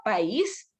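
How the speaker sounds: "país" slowly with stressed Í; hiatus reading. Shown as a demonstration. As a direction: stress the last syllable of "país". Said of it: "yo no leo".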